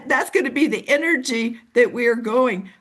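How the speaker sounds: ordinary talk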